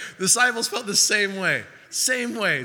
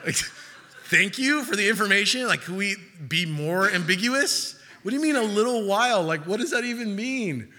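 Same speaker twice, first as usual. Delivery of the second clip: mock exasperated; 2 semitones higher than usual. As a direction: roll your eyes at the vague answer. Disciples mock annoyed.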